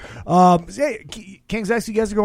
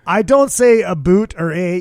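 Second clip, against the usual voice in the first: put-on Canadian accent; 4 semitones higher, 6 dB louder than usual. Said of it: "my Canadian accent".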